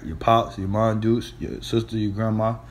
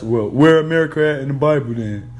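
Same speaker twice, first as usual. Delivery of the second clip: a scoffing doubter, pitched a bit up and louder; mock the skeptic's challenge; mocking heathen; 3 semitones higher, 4 dB louder than usual. Preacher mimics a heathen questioning the Bible, scoffing. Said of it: "a damn, uh, heathen asking us".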